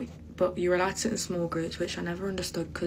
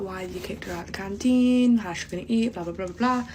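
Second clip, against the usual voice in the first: mock angry dad; 4 dB louder than usual. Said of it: "screaming at the teachers".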